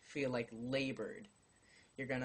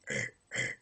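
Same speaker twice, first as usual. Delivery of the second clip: throat burp sound; short burped grunt; burp noise; 4 dB louder than usual. Shown as a demonstration. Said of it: "from up here".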